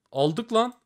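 cheering a lucky win; excited. Real, not acted. Win after case upgrade.

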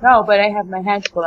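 talking while chewing; words round a bite of food; mouth full. Real, not acted. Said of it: "Don't talk with your mouth full".

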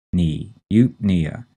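slow "knee", then "eupnea" stressed there; stress on second syllable. Shown as a demonstration. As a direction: isolate "knee", then say "eupnea" as yoop-NEE-uh. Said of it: "put the stress on the second syllable".

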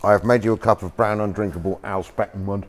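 talking while chewing cake; words round a mouthful of cake; mouth full. Real, not acted. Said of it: "I'm chewing on cake as well".

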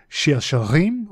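"Shir Shirim" with Hebrew vowels, said slowly; Hebrew title. Shown as a demonstration. Teacher giving the Hebrew name of Song of Songs. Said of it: "But in Hebrew".

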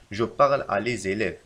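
slow, even reread; slow repeat. Shown as a demonstration. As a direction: say it slowly again. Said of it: "فالخطأ في هذه الجملة".

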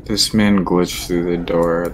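loud startled outburst; surprised. Real, not acted. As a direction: blurt it out in shock. Teammate caught by monster.

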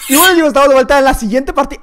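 youtuber intro. Acted. Intro announcer read.

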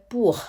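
"pour" with a breathy R at the end; French R demonstrated. Shown as a demonstration. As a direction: let air trail after "pour". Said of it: "มี air ข้างหลังหน่อยนึง".

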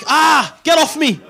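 high, loud, slow scream for help; hammed-up victim yelling get off me; mock panicked yell. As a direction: shriek it like you're being grabbed. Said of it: "I'm like".

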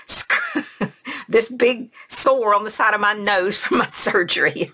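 real laugh breaking into the words. Real, not acted. Narrator telling of the sore on her nose, laughing. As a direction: talk through a helpless little high giggle.

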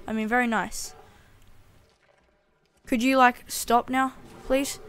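begging loudly and fast; loud pleading. Real, not acted. Gamer loudly begging the bear to stop.

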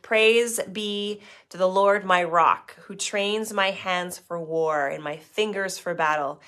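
slow, measured Bible reading; scripture reading. Acted. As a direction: read the psalm with weight. Reads Psalm 144 aloud.

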